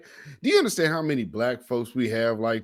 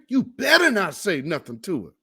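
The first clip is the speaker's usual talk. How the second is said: higher-voiced mock of the clip guy; mocking imitation; 4 semitones higher than usual. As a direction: parrot his warning with a sneer. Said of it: "I'm gonna play that again".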